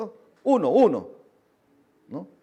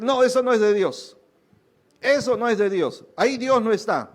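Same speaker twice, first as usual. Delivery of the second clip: quoted naysayer; 4 semitones higher, 5 dB louder than usual. Retold or imitated. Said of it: "alguien te puede decir".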